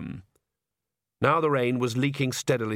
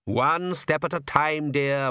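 slow, higher, genial patriarch; cheerful; 4 semitones higher, slower than usual. Acted. Count reassures his sulky daughter, cheerful. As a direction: soothe with unhurried good cheer. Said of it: "said the Count cheerfully".

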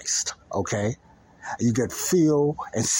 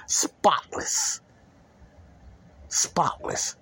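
whispered emphasis; 4 semitones higher, much slower than usual. Real, not acted. Preacher stressing a clean slate.

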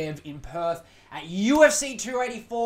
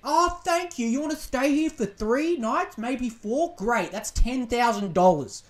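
higher, sugary fake-polite host voice; mock Airbnb host; 5 semitones higher, 3 dB louder than usual. Mocking Airbnb hosts quoting prices, fake sweet voice. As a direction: lightly play a cheerful gouging landlord.

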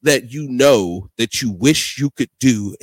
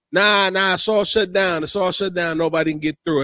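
put-on New York accent; 4 semitones higher than usual. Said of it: "imitating the police officer".

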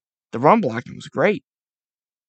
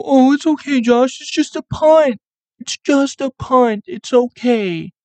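put-on high, loud, slowing baby-talk comfort; mock coddling; 10 semitones higher, 4 dB louder than usual. Fan consoling Josh Allen after a punt, high and cooing. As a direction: soothe him like a toddler who dropped his toy. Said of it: "I did the whole, the".

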